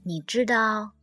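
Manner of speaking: lightly voiced old retriever, subdued; tender old dog. Old dog speaks of his family, tender and subdued. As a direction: confide it with quiet, understated tenderness.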